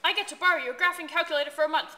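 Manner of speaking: laughing, gloating villain. Acted.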